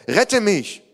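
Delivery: high-pitched cry for rescue; acted shout, pitch leaping up. A narrator's reading. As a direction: cry for help as if sinking. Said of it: "schrie er".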